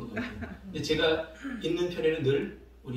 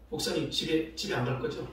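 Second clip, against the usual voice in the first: nagging repeated question. Retold or imitated. Kids begging the pastor not to go home, nagging. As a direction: keep pestering, more insistent each time. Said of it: "계속 물어보는 거예요".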